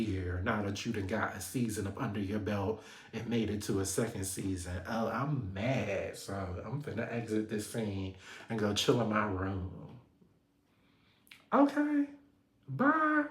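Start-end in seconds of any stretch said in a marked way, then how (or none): 4.9-9.7 mock sulk. Mocking Kay storming off. 11.5-13.2 sing-song high dismissive bye; mock bye. Mocking Kay as she leaves, high sing-song bye.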